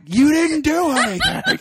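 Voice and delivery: squeaky, high and slow exasperation; high-pitched incredulous reply to a needless apology; exasperated high squeak. Retold or imitated. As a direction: squeal it out in mock disbelief.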